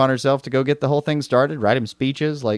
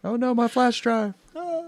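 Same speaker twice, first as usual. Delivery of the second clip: mock panic; 13 semitones higher than usual. Mock panic over lost achievement.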